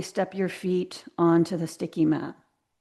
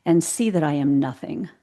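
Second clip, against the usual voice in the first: reciting a quote; 3 semitones lower than usual. Shown as a demonstration. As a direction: read it out like a line of wisdom. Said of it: "So the quote is".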